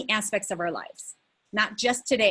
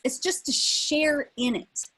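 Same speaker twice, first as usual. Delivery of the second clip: "share" said slow and raised, leaning on it; stress on share; 5 semitones higher than usual. Shown as a demonstration. Coach stressing "share" to the group slowly. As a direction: give the word "share" a slow, higher push. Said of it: "I want to emphasize the word share".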